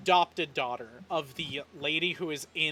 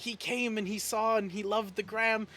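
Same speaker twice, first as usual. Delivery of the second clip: excited whisper-brag; 4 semitones higher than usual. Acted. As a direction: point out the hero to the kids. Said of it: "hear her go".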